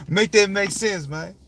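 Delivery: high, loud dare to explain; exasperated challenge; challenging disbelief. Real, not acted. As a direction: demand it make sense. Challenge after laughing.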